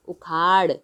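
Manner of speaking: "उखाड़" ending in a retroflex flap; flapped ड़. Shown as a demonstration. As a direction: flick the tongue lightly to end "उखाड़". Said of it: "तो हम इसको बोलेंगे".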